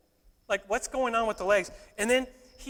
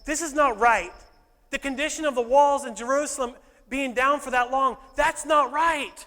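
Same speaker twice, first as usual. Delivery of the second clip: fired-up resolve; 3 semitones higher, 5 dB louder than usual. Retold or imitated. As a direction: voice him as a man who's had enough. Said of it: "he wouldn't talk like that".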